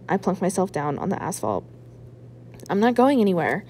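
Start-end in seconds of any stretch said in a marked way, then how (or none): 2.7-3.6 mild mock shout. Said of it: "I shout".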